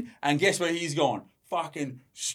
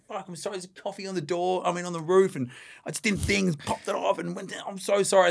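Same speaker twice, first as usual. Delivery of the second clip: mock grovelling apology; 4 semitones higher, 5 dB quieter than usual. Apologising to screaming wife.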